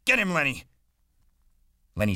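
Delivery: very high, loud yell through cupped hands; urgent full-voiced command. A narrator's reading. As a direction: holler the order across the room. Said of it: "cupped his hands around his mouth and yelled".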